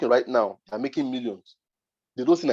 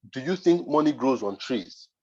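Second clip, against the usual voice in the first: slow, condescending quote of the client; mocking client tone. Client scolding him about his price, slow and condescending. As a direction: lean on think like a scornful client. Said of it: "she used a particular tone".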